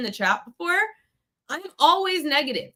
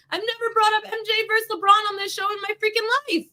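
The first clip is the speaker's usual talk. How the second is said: heated rant; 6 semitones higher than usual. Real, not acted. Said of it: "I was getting heated".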